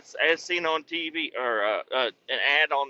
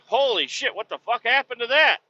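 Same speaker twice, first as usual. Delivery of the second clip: higher startled disbelief; shocked; 10 semitones higher than usual. Retold or imitated. Seeing a flattened aluminum rim, higher shocked exclamation. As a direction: gasp it out at the wrecked rim.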